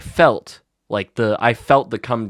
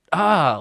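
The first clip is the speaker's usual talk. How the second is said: brief mock-angry "ah", raised and louder; angry outburst; 8 semitones higher, 5 dB louder than usual. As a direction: imitate a kid's angry cry. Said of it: "angry at me and just".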